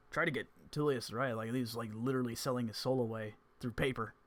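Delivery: dish the story with gusto; Gene voice. Acted. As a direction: bard telling Evans about the warlock contract.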